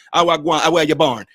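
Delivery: a lightly imitated Jamaican asking where you were born; Jamaican patois quote. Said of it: "That's what they say".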